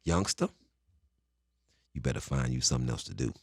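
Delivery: put-on meaner old lifer. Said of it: "meaner and meaner".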